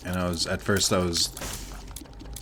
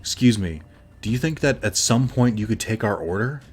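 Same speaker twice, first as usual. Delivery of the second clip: mock-polite demand, pointed and higher; mimicking a condescending complaint to a waiter; imitated snippy customer; 3 semitones higher, 3 dB louder than usual. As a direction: put on a rude diner's fake courtesy. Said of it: "pulls one of the waiters aside and goes".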